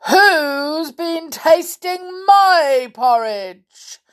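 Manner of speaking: slow, loud, booming complaint; cross growling bear. A narrator's reading. Father Bear finding his porridge tasted, cross growl. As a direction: growl each long word crossly. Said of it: "he growled crossly".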